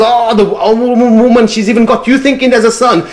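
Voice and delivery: scoffing merchant. Acted. Merchant mocking his wife's belief in a son, high and loud. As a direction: scoff at the old woman's foolishness.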